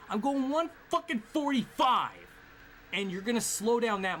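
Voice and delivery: high, loud outraged exclamation; outraged shout. Real, not acted. Gamer shouting in disbelief at his speed.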